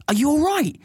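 high, rushed worried questions; worried Jen. Retold or imitated. Jen questioning the neighbour at the door, high and anxious. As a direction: pour out worry to the old lady. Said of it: "Jen's like".

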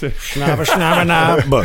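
mock Chinese gibberish; bad fake Chinese babble; fake Chinese accent. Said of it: "That was the worst Chinese accent".

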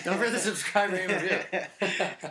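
hammy podcast announcer plug; slow, drawn-out promo read. Pretend.

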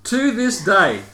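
loud, high, laughing read; reading through laughter. Real, not acted. Host reading the absent panelist's note, laughing loudly. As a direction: struggle to read the note for giggling.

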